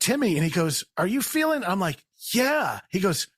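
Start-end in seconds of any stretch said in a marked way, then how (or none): 1.0-1.6 higher-pitched, wary question; tentative check-in. Retold or imitated. Acted friend asking while high. 2.3-2.8 high-pitched, drawn yeah; dazed agreement. Retold or imitated. Acted stoned reply.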